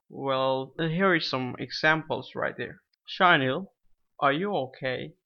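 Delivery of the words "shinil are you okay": rising yes-no tune on "are you okay?"; rising question tune. Shown as a demonstration. Teacher demos a yes-no question, rising tune. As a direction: lift the end of "are you okay?" upward. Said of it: "Notice the voice tone, the intonation".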